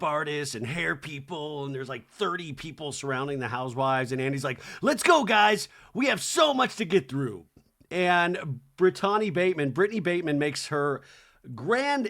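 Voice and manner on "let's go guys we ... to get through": mock call to round everyone up, raised pitch; hurrying host. Host to housewives with so much to get through, mock hurrying. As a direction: imitate a host chivvying the group along.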